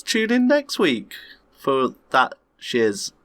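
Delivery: high, slow announcer plug; showy announcer. Pretend. Plugging next week's show to listeners, slow and high. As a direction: stretch it like a TV promo.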